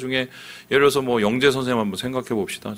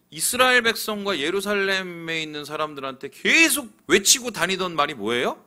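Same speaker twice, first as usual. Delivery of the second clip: ordinary delivery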